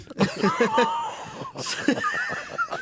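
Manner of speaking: high-pitched laughing shriek. Real, not acted. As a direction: burst into a shrill cackle. Cracking up at barista joke.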